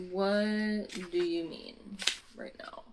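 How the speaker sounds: drawn-out, halting incredulous question; slow disbelief. Real, not acted. Reader questions the plot twist, slowly and in disbelief.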